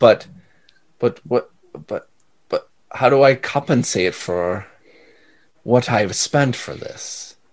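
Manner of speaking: embarrassed, sheepish, halting, tripping over words. Voicing a character who looks at the player: embarrassed, stumbling on words. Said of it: "embarrassed and kind of stumbles on his words".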